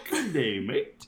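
half-hearted Australian accent, laughing into "mate"; weak Australian accent attempt. Shown as a demonstration. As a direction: give up on the Aussie accent halfway, chuckling. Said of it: "in an Australian accent".

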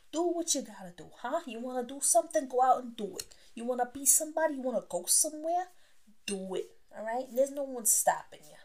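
light put-on Italian accent; playful Italian-accented pep talk with rising questions. Podcaster urging listeners to go do it, Italian accent. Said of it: "I'm gonna put on my Italian accent for you".

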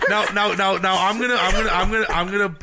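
stammering restarts broken by laughter; laughing. Real, not acted. Host laughing before asking about politics. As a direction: try to talk but keep laughing.

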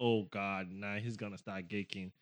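exasperated dread. Retold or imitated. Wife in the back as husband starts geeking, exasperated. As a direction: grumble it low as an aside.

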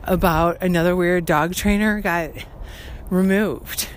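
loud, projected podcast voice; alarmed and loud, pushing the volume. Real, not acted. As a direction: talk over a passerby's speakerphone. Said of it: "very loudly".

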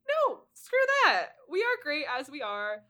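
loud, high acted defiance; mock defiance. Voices friends standing up for themselves.

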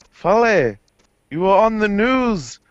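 high, loud scolding mum voice; angry mum. Retold or imitated. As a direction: scold him like an angry mother. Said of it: "his mum sent him a very angry text".

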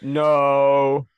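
whispered "No". Real, not acted. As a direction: breathe the "No" without voice. Denies nipple joke.

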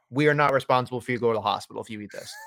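mock warning label. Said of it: "there's a description on it that says".

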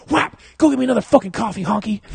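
high, loud, rapid comic yell; hammed-up indignant shouting; Chris Rock. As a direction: fire it off as an irate comedian. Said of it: "that reminds me of Chris Rock".

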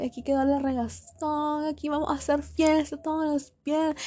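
lightly imitated children's show host; mild sing-song party hype, mockingly; kids' TV presenter. Classmate announcing Friday parties, mock kids' TV voice. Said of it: "habla como Discovery Kids".

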